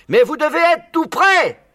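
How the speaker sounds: cri aigu, lent et appuyé; cri insistant. A narrator's reading. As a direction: marteler chaque mot en criant. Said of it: "cria Boggies". (Boggies crie, lentement et très aigu)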